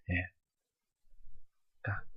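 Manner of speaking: ordinary talk, nothing marked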